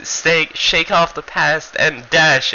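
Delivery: high, slow, theatrical chant; Furita's dash line. Retold or imitated. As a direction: declaim it like a silly battle motto.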